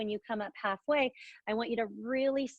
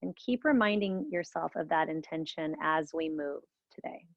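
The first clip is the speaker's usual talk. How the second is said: whispering; 3 semitones lower than usual. Acted. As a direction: whisper the reminder gently. Meditation intention, softly spoken.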